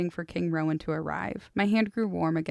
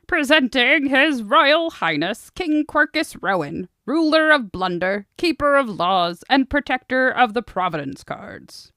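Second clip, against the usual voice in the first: pompous fussy courtier; 7 semitones higher, 9 dB louder than usual. Acted. Orator announcing the king.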